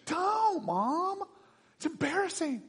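put-on high-pitched whiny kid protest; mock an embarrassed kid pleading with mom. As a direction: kid cringing at mom during drop-off. Embarrassed kid at school drop-off.

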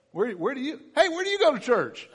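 high, bright mock question; curious stranger. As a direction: play a nosy acquaintance asking. Someone asking where you worship.

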